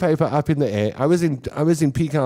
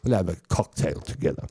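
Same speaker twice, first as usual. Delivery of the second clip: posh Camps Bay socialite; 2 semitones higher than usual. Retold or imitated. Comic mocking a Camps Bay local inviting a friend. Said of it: "But around Camps Bay, it's like".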